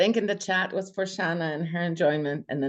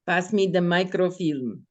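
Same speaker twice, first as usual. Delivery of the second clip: Russian accent. Shown as a demonstration. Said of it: "always wanted me to say".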